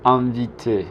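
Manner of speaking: "Inviter" with "In" as one nasal vowel, no separate n. Shown as a demonstration. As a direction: demonstrate "Inviter" starting on a French nasal vowel. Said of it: "la N hace que la I sea nasal".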